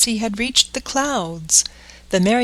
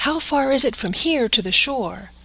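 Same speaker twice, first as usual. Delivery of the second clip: anxious question; 5 semitones higher than usual. Acted. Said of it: "asked Pinocchio anxiously".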